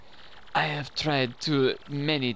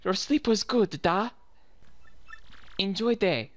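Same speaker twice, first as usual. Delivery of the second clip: lightly put-on Russian accent, a little raised; 4 semitones higher than usual. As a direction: voice the game character with a Russian accent. Voicing a game character's dialogue.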